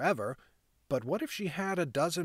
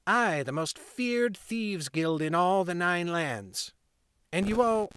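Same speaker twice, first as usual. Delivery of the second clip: put-on proud boy; 3 semitones higher than usual. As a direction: brag like the little gang leader. Boy boasting.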